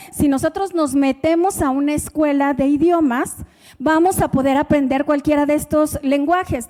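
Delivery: ordinary talk, nothing marked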